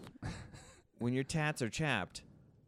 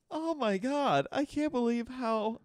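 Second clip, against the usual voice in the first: gushing excitement; 11 semitones higher than usual. Retold or imitated. Mocking giddy people in video.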